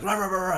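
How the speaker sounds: high, loud mock barks; playful yappy dog barks; imitated barking. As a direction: bark it out like a dog.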